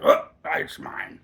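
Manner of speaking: slow, whispered gloat; mock whisper. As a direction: breathe it out slowly like a sneaky buyer. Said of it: "is like".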